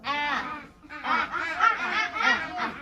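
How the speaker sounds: "Ah" held short and repeated; say the sound. Shown as a demonstration. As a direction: sound out "ah" again and again. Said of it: "let's say the sound".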